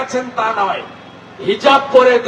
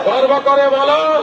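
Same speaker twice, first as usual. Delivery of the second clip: slogan call; 3 semitones higher than usual. Shown as a demonstration. Speaker leading the crowd in Swamiji's words, rallying call. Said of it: "জোরে বলুন".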